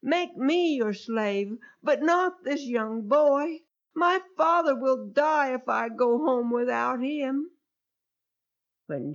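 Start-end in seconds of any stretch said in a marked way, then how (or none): 0.0-7.5 a hint of Judah pleading; begging. Judah begging the harsh ruler to take him instead, lightly pleading. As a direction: beg the ruler to spare the boy. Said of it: "Judah begged".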